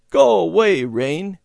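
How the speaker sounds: put-on loud child's plea at the sky; pleading shout. A narrator's reading. Boy shouting at the rain to go away, pleading.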